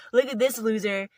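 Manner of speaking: loud, jeering taunts at the outcast; mocking wolf pack. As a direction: jeer at him like a bully in the pack. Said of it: "and they're like".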